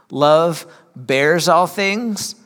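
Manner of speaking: slow, weighty scripture reading with each all leaned on. Acted. Preacher reading the verse to his church, slow and weighty. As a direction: read it out slow so every all lands.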